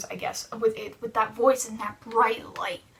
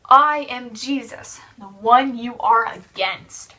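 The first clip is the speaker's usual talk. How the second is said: slow, louder, solemn proclamation; slow solemn Jesus voice; 5 dB louder, slower than usual. Acted. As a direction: speak slowly as a voice from heaven. Jesus' voice answering Saul.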